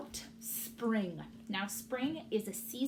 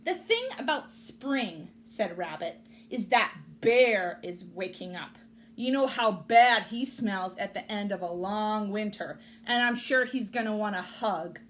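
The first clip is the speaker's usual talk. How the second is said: grumpy rabbit; 7 dB louder than usual. Acted. Rabbit complains.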